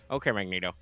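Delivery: talking around a pen; words through a pen in mouth; pen in teeth. Real, not acted. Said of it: "Just put a pen in my mouth".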